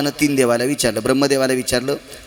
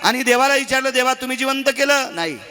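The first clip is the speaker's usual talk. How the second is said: high and fast, firing the question at each god; the journalist going door to door asking; quick questioning; 11 semitones higher than usual. Acted.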